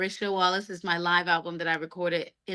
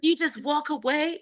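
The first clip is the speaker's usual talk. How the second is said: much higher, stunned question; incredulous partner; 10 semitones higher than usual. Retold or imitated. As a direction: mimic the partner's disbelief, pitched up. Partner's disbelieving question retold.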